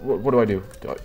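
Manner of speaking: panicked, breathless rush of words; being chased. Real, not acted. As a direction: scramble to hide in a panic. Police called, fleeing to dumpster.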